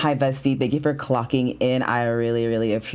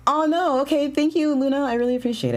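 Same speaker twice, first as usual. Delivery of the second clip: high flustered "oh no, thank you"; 13 semitones higher, faster than usual. Real, not acted. Streamer gushing thanks at a viewer, high and flustered. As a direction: gush it out, caught off guard.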